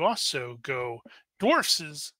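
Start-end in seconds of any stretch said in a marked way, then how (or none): 1.4-2.1 higher, louder creature exclamation; Smeagol. Acted. Goblins react to a dwarf, Smeagol voice. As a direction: pitch it up in a put-on creature voice. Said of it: "talking like Smeagol".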